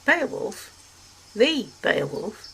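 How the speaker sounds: surprised Dasterium. A narrator's reading. Dasterium hearing Beowulf is nearby, surprised. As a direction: savour the famous name.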